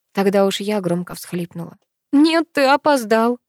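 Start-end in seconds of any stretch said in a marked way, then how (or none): 2.1-3.4 high, slow, tearful words. A narrator's reading. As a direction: say it through a sob. Sobbing after громко всхлипнула.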